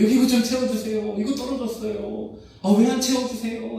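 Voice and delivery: high-pitched, insistent mock complaint; complaining shout. Buffet guest demanding a refill from staff, complaining shout. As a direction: act out badgering the staff, voice pitched right up. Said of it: "하고 소리치는 사람들".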